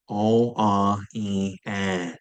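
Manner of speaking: vowels buzzing in the nose, no N; nasal vowels. Shown as a demonstration. Teacher models nasal vowels for students to repeat. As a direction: hum the vowels through the nose. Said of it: "Should feel it buzzing in your nose".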